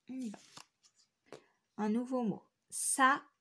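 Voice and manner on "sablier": "Sablier" in separate beats, sa... bli-yé; syllable by syllable. Shown as a demonstration. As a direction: break "Sablier" after a firm first syllable. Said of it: "Dans quelle syllabe". (« Sablier » découpé en syllabes, sa... bli-yé)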